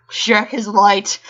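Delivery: reverent. Acted. Reverent slow proclamation.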